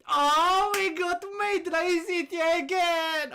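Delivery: high, slow, thrilled cry; excited squeal. Real, not acted. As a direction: squeal with delight at the pull. Gacha pull, excited squeal.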